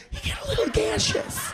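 way up high, coy and small; squeaky high aside. Acted. Telling the crowd about Aspen gas, squeaky high. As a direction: pipe it up like a shy confession.

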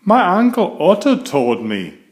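put-on a bashful young cub answering the teacher; Susie's little voice. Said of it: "she says".

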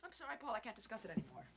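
low, soft refusal; quiet withdrawal. Acted. Wife shuts down the discussion, low and quiet. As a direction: drop suddenly to a subdued, closed-off tone.

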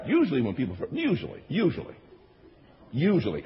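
"usually" set apart and repeated for emphasis; "usually" repeated as a pointed qualifier; stress on Usually. Shown as a demonstration. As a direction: lean on the word "usually". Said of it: "emphasis on the word usually".

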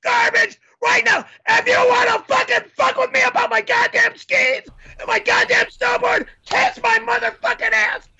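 long raging tirade; furious shout. Acted. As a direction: keep screaming curses at him. Furious tirade about skis.

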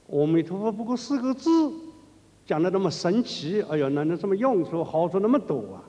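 skeptic's mocking challenge, lightly voiced; scoffing young man. Monk voicing a young man protesting to a master, mild scoffing. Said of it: "年轻人就向这个法师抗议".

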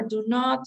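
"not" given the emphasis in "do not"; "do not" with the weight on "not"; stress on NOT. Shown as a demonstration. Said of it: "you're stressing the word not".

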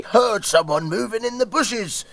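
high piglet squeal. Acted. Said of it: "squealed the piglets".

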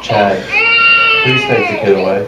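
put-on Johnny begging his roommate to take the baby away; frantic pleading shout. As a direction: beg him to get the kid out. Pleading over crying baby.

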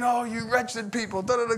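mildly mocking preacher impression; hellfire preacher. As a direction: draw out the scolding, lightly imitated. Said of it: "he's saying, going after him".

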